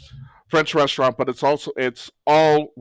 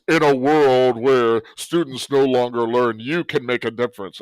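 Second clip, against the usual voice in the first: Don LaFontaine trailer voice; 3 dB louder than usual. Shown as a demonstration. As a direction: lightly play an epic movie trailer announcer. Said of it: "my Don LaFontaine, the old, um, movie trailer voice".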